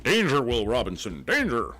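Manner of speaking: flat, even robot delivery. Pretend. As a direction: speak like an old TV robot. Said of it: "Was that your robot impression".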